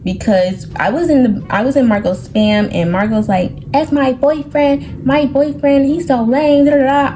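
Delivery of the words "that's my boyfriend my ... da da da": higher-pitched mimicked griping; mock complaint. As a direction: imitate someone going on about a boyfriend, pitched up. Mimics Marco's complaint about a boyfriend.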